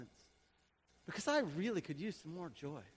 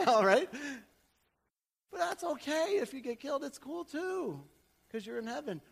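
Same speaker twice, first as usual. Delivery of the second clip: 1 excited preaching; 7 semitones higher, 5 dB louder than usual. Acted.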